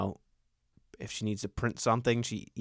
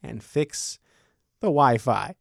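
mock pleading; 4 semitones higher, 4 dB louder, slower than usual. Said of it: "I'm on the phone crying to A T and T".

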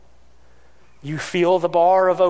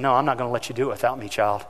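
gentle firm voice; 3 semitones lower than usual. Retold or imitated. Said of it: "the Holy Spirit saying".

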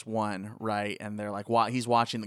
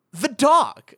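shouted alarm; 9 dB louder than usual. Retold or imitated. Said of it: "And I was like".

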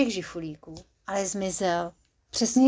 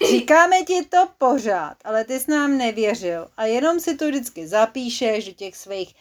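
squeaky worms; 4 dB louder than usual. Acted. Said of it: "Zapištěli opodál žížaly".

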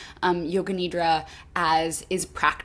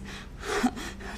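soft, breathy laugh at own slip; self-conscious laugh; 9 semitones higher, 7 dB quieter than usual. Real, not acted. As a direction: laugh off a botched word, softly. Laughing at own botched word.

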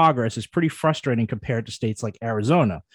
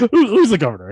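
asking through laughter; laughing at himself, asking the governor's name; 7 semitones higher, 6 dB louder than usual. Real, not acted. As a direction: giggle through the question.

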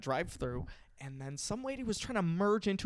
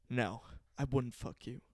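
gangster cool; 4 semitones lower, 4 dB quieter than usual. Retold or imitated. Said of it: "one of the most gangster moments".

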